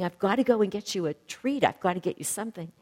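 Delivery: mock-eager, hurrying to fetch a treat; emotional excitement. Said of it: "he got so emotional about it".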